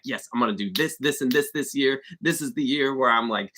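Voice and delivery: mock enthusiasm. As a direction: act out a burst of New Year motivation. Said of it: "so much enthusiasm, so much motivation".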